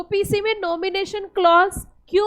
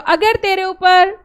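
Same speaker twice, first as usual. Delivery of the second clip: louder, slow recital; 4 dB louder, slower than usual. Shown as a demonstration. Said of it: "और जोर से बोलो".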